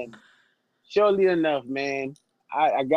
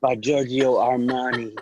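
slow, mock-luxurious brand read; lightly played perfume ad tagline; cologne commercial voice; slower than usual. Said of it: "doing a cologne commercial".

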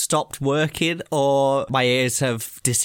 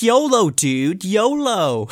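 higher, slow, drawn-out yolo dude; mock German boy accent; 7 semitones higher, 6 dB louder, much slower than usual. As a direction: ham up the cool foreign kid. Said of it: "And he was like".

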